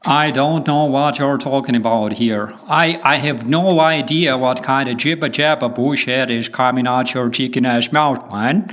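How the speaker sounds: mock American rant; hammed-up American trash talk; American accent. Shown as a demonstration. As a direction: put on a folksy American accent. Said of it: "can you do a good American accent".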